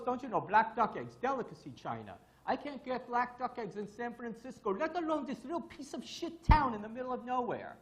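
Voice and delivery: hammed-up Russian accent, pitched high; Stan. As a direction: grumble theatrically in an imitated Russian accent. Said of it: "with my funny Russian accent".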